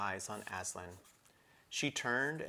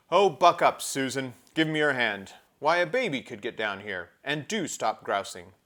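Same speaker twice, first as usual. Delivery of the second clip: loud, higher chiding call; 4 semitones higher, 10 dB louder than usual. Acted. Peter urging Susan down the path, loud chiding call. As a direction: urge her on from above. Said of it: "Peter's voice saying".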